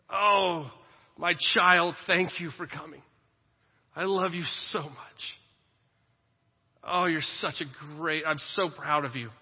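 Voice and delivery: heartfelt welcome, loud at first, then easing; loving Father God. Acted. God welcoming his child to the table, gushing love. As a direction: gush with fatherly love and pride. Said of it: "That's the voice of God".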